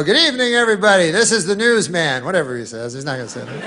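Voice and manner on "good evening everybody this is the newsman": mock TV anchor greeting; hammed-up evening news opener; newsman voice. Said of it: "he'll go, he'll go".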